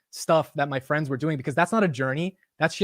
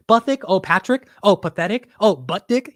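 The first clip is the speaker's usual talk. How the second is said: higher, louder mock fumbling of a name; mock name-mangling; 5 semitones higher, 6 dB louder than usual. Schoolmates getting his name wrong in high school, mockingly imitated. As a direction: imitate schoolmates trying one wrong name after another.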